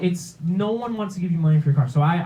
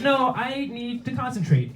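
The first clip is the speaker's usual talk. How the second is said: put-on exasperated kid; 8 semitones higher, slower than usual. Kid answering mom's interruption.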